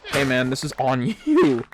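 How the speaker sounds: half-laughed mock accusation; mock blaming. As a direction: laugh breaking into the last word. Mock telling-off he would never give.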